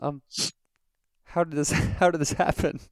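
high, hesitant mimicked caller; imitated caller's voice. Caller reacting to news of a death, high hesitant voice. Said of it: "was a very similar voice".

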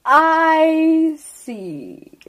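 a lightly voiced ancient turtle, slow and drawn out; slow old turtle. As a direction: speak as an unhurried old turtle, letting each word sink in.

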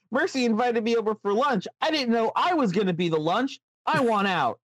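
a nervous little rabbit pleading to get out; scared puppet rabbit. Acted. Rabbit pleading that he's about to become lunch, high and whiny.

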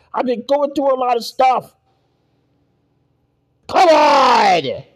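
loud, high exasperated complaint; exasperated shout. Real, not acted. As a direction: protest at the top of your voice. Complaining about the extra work.

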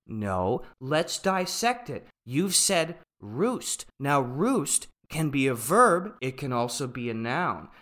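lightly voiced slow, deliberate lecturer; pedantic professor. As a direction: dissect it word by word, mildly condescending. Acts out pedantic professor dissecting a sentence.

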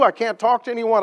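high, loud cry of despair; desperate, tearful retelling; tearful plea. Retold or imitated. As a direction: let it break with helplessness. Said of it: "bawling his eyes out".

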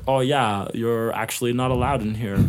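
lightly voiced woman, a hint of girl. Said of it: "That's a weird girl voice that you got".

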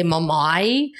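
imitated Brummie pronunciation of "Mamai"; Birmingham kid's accent. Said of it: "a kid would say".

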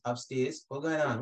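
put-on younger self's thick Caribbean accent; imitated Caribbean newcomer; heavy Caribbean accent. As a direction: answer simply in a strong Caribbean accent. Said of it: "with a heavy accent like how I had".

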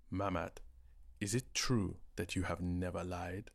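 a hint of a regal king; lightly voiced royal questioning. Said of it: "using his most regal voice".

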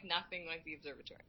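soft whispered aside. Real, not acted. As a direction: drop to a whisper. Aside while describing.

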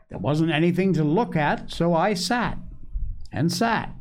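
put-on high-pitched child telling his tale; small boy Joel, eager. A narrator's reading.

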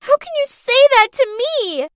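high, loud hurt shout. Acted. Clarice to Cindy, a high loud hurt shout. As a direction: yell it at her. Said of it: "Clarice shouted".

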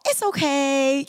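put-on high, slow little boy saying it's okay; cute little kid voice. Imitating her friend's son soothing after spills, cute little voice. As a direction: imitate a sweet seven-year-old soothing everyone. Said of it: "he has this cute little voice".

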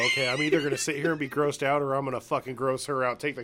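fast, loud, laughing advice; hyped advice. Pretend. Advising the coworker how to win, fast gleeful rant. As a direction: rattle it off with glee. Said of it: "is you go".

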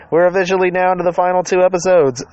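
excited. Real, not acted. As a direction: lift it up with excitement. Repeats the announcement, excited.

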